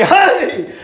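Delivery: high, drawn-out preacher's cry; imitated tearful holler, stretched out; retold weeping cry. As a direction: cry it out slowly, acting overcome. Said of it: "I began to weep and say".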